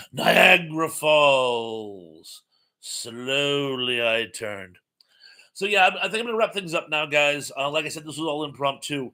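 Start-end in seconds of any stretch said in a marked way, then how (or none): 0.1-4.8 Niagara Falls routine. Retold or imitated. Stooges Niagara Falls routine quoted.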